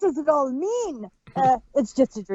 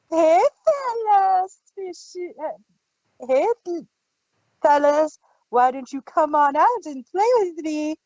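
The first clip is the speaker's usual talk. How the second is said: acted quote; 2 semitones higher than usual. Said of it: "It's like".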